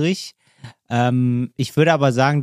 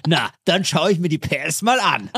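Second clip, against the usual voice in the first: TV show intro voice; 3 semitones higher than usual. Pretend. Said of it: "bei dieser Sendung".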